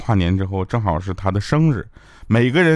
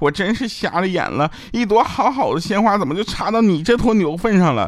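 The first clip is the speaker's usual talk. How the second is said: very high, tearful crying voice, on the verge of tears; 11 semitones higher than usual. Retelling his girlfriend's words during a New Year argument, imitating her tearful voice. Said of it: "带着哭腔".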